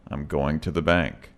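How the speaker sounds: "going to" said in full before "the bank". Shown as a demonstration. Teacher modeling full "going to". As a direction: keep "going to" unreduced. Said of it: "It sounds like going to".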